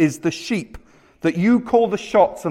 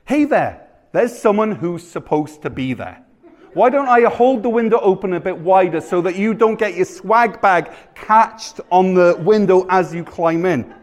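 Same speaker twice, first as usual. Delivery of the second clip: chirpy, over-helpful call to a burglar; high opening call, hammed-up politeness; mock friendly welcome; 3 semitones higher than usual. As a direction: greet the intruder with feigned helpfulness.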